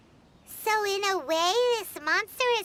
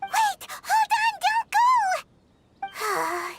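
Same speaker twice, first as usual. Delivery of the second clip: calling after them; 10 semitones higher, much slower than usual. Acted. Paimon calls after leaving kids.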